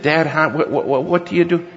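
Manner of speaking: mock-panicked, high stammering question; flustered stammer. Dad imitates inexperienced son asking for help, flustered.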